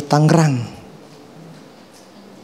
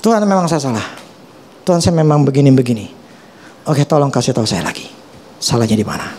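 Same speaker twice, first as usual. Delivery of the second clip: humble confession; 3 semitones lower, faster than usual. Retold or imitated. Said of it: "Tuhan akan ngomong".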